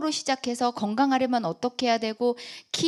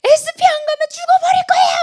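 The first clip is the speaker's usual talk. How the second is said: much higher, louder crying yell; tearful desperate shout; 11 dB louder than usual. Retold or imitated. To her sponsor after the meeting, a crying shout. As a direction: scream it through tears, begging for success. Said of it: "막 이러면서 막 울고".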